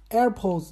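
"AirPods" with a light, fading second half; faded word ending. Shown as a demonstration. Host trying out a product name, fading ending. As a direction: say "AirPods" firm in front, faint at the back. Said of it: "就这么说，它后边就淡了".

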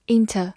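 "inter" with a short, reduced final vowel; weak form. Shown as a demonstration. Teacher showing the weak reading of into, "inter" with reduced ending. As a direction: say "inter" with the ending weakened to a schwa. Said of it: "或者弱读成".

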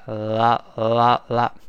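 啦 with tongue tip touching behind the upper teeth; demonstrated L sound in 啦. Shown as a demonstration. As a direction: tap out 啦 from the tongue tip, separately. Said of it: "抬起来跟上牙膛粘一下".

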